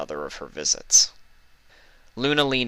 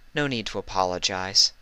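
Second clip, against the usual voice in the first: reassuring. Acted. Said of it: "Celestia assured her".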